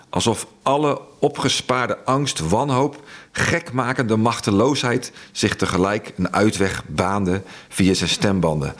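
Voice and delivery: measured, grave storytelling read; story narration. A narrator's reading. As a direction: read it like a dark wartime novel. Reads his novel aloud.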